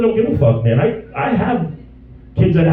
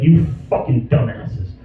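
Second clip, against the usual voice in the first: whispered insult; 6 semitones lower, slower than usual. Retold or imitated. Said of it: "I'm like".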